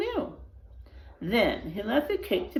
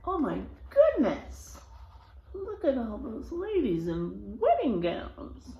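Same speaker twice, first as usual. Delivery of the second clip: amazed; 3 semitones higher than usual. Real, not acted. Reader reacting to picture.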